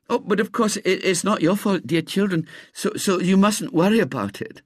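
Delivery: put-on high, gentle reassuring old lady; lightly voiced kind old lady. A narrator's reading. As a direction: soothe the children though hurt.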